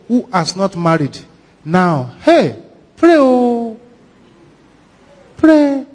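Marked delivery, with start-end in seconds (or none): 2.2-3.8 high, loud call of "pray", rising at the end; urgent call. Acted. 5.4-5.8 loud call. Acted. Preacher calling pray.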